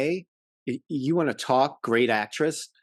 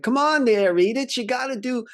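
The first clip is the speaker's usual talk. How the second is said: much higher, pushy Archie Bunker whine; Archie Bunker impression; 12 semitones higher, 3 dB louder than usual. Husband brushing off his sick wife, in a high mock Archie whine. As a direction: needle his wife like a stubborn old husband. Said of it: "and he's like".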